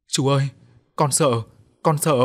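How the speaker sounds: put-on a scared little girl clinging on; whimpering child. A narrator's reading. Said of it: "thút thít". (bé gái sợ hãi, giọng cao)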